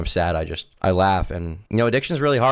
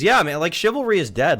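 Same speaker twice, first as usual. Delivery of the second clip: mock outrage; 9 semitones higher, 4 dB louder than usual.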